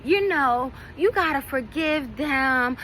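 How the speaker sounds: a hint of the acquaintance's know-it-all comfort; imitating Treese consoling. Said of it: "and she's like".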